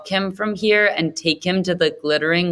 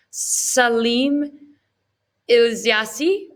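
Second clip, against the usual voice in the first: high, halting, breathless with eagerness; excited stammer; 7 semitones higher, much slower than usual. Acted. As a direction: stumble over your own name, pitched up with excitement. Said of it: "Salim stammers in his excitement".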